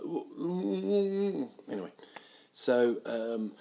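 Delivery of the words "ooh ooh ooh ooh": slow, higher hammed-up moans; drawn-out silly ooh sounds; mock moaning. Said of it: "and then like".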